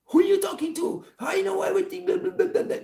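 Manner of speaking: mocking the daughter. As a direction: parody her like she's a squeaky know-it-all. Mocking her know-it-all talk.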